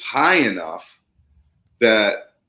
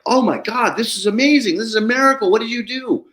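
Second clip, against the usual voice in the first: high-pitched, excited imitation of astonished clients; retold amazement; 13 semitones higher, 4 dB louder than usual. Clients finally seeing nature return, imitated amazement. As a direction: gush it high and a bit louder, as the amazed client.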